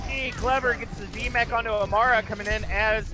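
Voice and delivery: steady, keyed-up esports commentary; live play-by-play. Real, not acted. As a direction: call the action as it happens.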